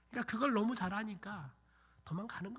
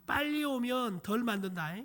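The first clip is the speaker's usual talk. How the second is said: loud, raised-pitch motherly threat; acted shouted warning; 5 semitones higher, 8 dB louder than usual. Mother in the field warns her fleeing child, calling loudly.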